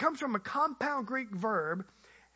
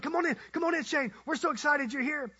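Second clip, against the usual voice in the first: higher-pitched, mildly excited greeting; excited welcome; 4 semitones higher, faster than usual. Retold or imitated. Pastor welcomes his guest at the door, mildly excited. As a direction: imitate an eager host welcoming a guest. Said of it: "pastor's so excited to see me".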